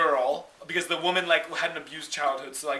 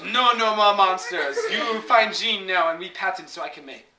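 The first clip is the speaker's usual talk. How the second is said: put-on French accent. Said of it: "the French lady who owns the company".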